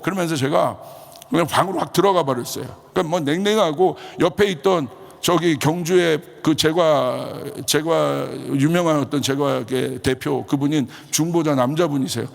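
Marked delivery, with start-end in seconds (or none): none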